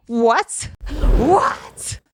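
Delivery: high, loud incredulous what; stunned what. Retold or imitated. She reacts to being called sweetheart, high incredulous. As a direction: let each What climb in disbelief. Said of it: "I'm like".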